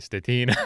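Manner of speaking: "Stetina" as steh-TEE-na; Italian-style pronunciation. Retold or imitated. Host imitates Italian saying the surname, "Stetina" as steh-TEE-na. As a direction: stress a long EE in the middle of "Stetina". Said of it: "it was actually Italian saying it".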